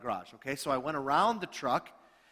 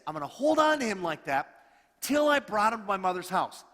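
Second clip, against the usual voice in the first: determined bride; 4 semitones higher, 5 dB louder than usual. Acted. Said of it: "then she says this".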